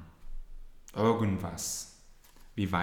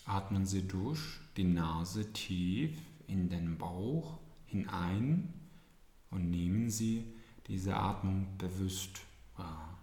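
soothing spa whisper. Acted. Repeats the breathing instruction.

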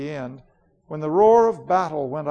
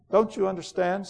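imperious queen Jadis, bitter; 4 semitones higher than usual. Acted. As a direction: rage coldly against the sister. Queen's lines.

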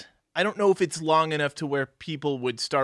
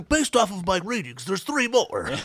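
lightly voiced grad student, a bit higher; deadpan student reading his data; a hint of a know-it-all seismologist; nerdy grad student; 5 semitones higher than usual. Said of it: "just like".

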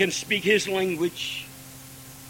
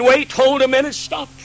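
conductor halting the band; 5 semitones higher, 4 dB louder than usual. Retold or imitated. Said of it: "the conductor said".

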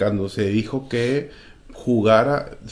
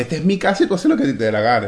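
scolding mother; 4 semitones higher, 3 dB louder, faster than usual. Retold or imitated. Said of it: "Tu mamá desde los tres años te dice".

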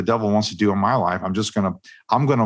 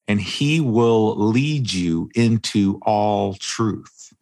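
slow, measured reading of Jesus' words; solemn scripture quote; much slower than usual. Retold or imitated. Quoting Jesus on the Holy Spirit, slow and reverent. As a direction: let each word land slowly, like reading scripture. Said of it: "he says".

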